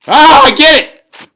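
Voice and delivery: sudden realization. Real, not acted. Finally catching the timing trick.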